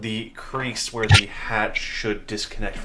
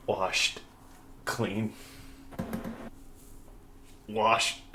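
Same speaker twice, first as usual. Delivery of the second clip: faraway voice; 6 dB quieter, much slower than usual. Acted. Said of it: "a faraway voice".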